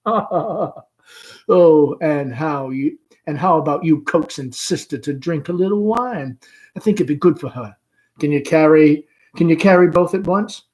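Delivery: mother sending the caller to her daughter; Amanda. Acted. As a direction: chatter on brightly. Amanda continues.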